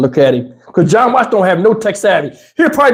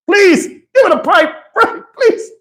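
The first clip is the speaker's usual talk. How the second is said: panicked pleading; 9 semitones higher than usual. Retold or imitated. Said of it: "He was panicked".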